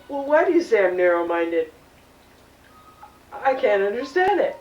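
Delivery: indignant loud. Acted. Offended on phone.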